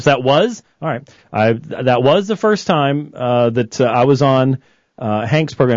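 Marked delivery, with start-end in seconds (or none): 1.3-5.7 distorted headset audio; fuzzy, distorted phone-line sound; fuzz distortion. Real, not acted. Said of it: "I sound really distorted in my headsets".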